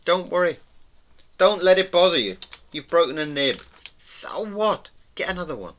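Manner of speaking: high, loud pep talk; mock consoling. Telling artists a broken nib doesn't matter, high and insistent.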